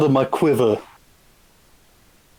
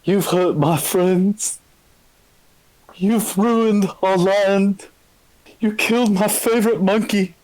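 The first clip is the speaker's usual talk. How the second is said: dramatic threat; 6 semitones higher than usual. Acted. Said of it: "And I say".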